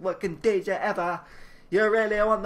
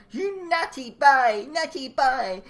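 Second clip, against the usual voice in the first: scolding aunt; 5 semitones higher, 5 dB louder, slower than usual. Acted.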